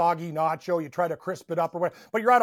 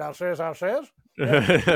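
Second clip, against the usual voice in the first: a hint of the cartoon rooster drawl; Foghorn Leghorn; 4 dB louder, much slower than usual. The speaker recalling his bar nickname, light Foghorn voice. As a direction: tip a nod to the rooster voice. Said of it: "They used to call me Foghorn Leghorn".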